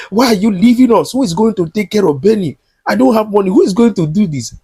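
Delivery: a panicky husband who can't cope; imitating Jonathan's panic. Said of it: "Jonathan ran out and was like".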